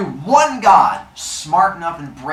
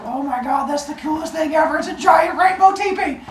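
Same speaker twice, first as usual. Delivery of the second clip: high-pitched gushing; over-the-top excited squeal; awestruck humans; 12 semitones higher than usual. Acted. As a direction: gush with the voice climbing way up. Humans marvel in retold story.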